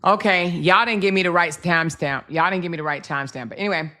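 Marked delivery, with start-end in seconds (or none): 0.0-2.3 loud complaint. Real, not acted. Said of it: "repeated complaint". 2.3-3.5 quick, lower muttered repeat; fast mutter. Real, not acted. Commentator grumbling at viewers, fast and lower. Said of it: "repeated complaint".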